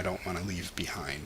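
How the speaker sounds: unvoiced, trailing whisper. Real, not acted. Admitting to viewers she won't leave people, whispered. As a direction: breathe the words out softly.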